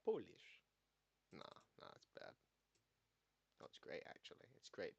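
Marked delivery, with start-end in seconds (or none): 0.1-0.6 lightly put-on Polish accent; attempted Polish accent. Shown as a demonstration. Streamer testing how bad it is, mock Polish accent. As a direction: try a Polish accent on one word. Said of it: "I'm measuring my accent's".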